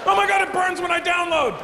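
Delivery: a frightened falsetto whimper; high squeaky scared voice. Pretend. Computer user squeals in falsetto while downloading porn, scared and pleased.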